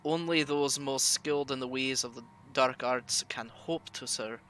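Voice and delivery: put-on heavy Russian accent, reading an occult text; solemn Russian-accented reading. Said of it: "It is hard doing that Russian accent for long".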